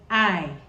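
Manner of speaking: I said like the ee in sea; teacher showing the Chichewa vowel; vowel sound I. Shown as a demonstration. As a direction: model I as ee in sea. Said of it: "E in sea".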